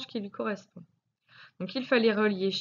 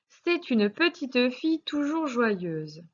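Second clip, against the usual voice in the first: slow whispered reading; 5 semitones higher, slower than usual. Shown as a demonstration. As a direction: whisper the sentence slowly to the pupil. Teacher reads exercise sentence aloud.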